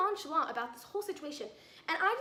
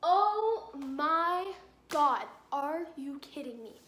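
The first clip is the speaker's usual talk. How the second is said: slow, loud drawn-out Oh my God; fed-up vlogger reacting to the text, loud and very slow; exasperated disbelief; 5 dB louder, much slower than usual. Real, not acted. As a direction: stretch it out in disbelief. Disbelief at scammer's message.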